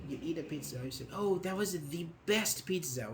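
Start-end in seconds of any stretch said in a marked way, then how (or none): 1.1-3.1 "the best" stressed, the as "thee"; lightly emotional praise, leaning on "the best"; emphatic, with emotion. Shown as a demonstration. Teacher acts a pizza eater, emphatic "thee best". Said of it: "with emotions".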